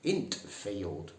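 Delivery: Northern accent, "int field" clipped and blunt; broad Northern "int field". Shown as a demonstration. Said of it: "Best to use the expression".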